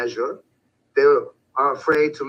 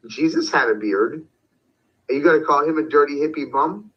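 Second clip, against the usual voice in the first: with a smile. Retold or imitated. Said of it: "say to them with a smile".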